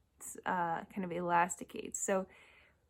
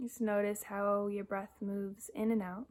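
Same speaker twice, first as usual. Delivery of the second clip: guided meditation. Acted. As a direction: guide them gently into noticing the breath, long pauses between cues. Leads a breathing meditation.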